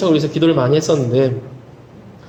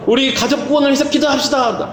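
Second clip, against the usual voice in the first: prayer leader's call; 6 semitones higher than usual. Retold or imitated. Church leader calling for family salvation prayer, mimicked prayer call.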